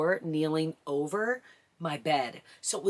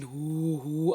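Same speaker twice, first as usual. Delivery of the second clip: low labor breathing. Shown as a demonstration. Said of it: "I'm doing all my low breathing".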